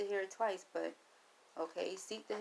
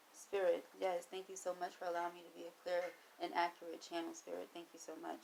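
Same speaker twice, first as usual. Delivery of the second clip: soft prayerful thanks; 6 dB quieter than usual. Real, not acted.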